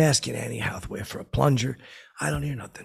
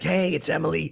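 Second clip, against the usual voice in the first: teasing call; 7 semitones higher, 4 dB louder than usual. Retold or imitated. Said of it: "I'm doing like this".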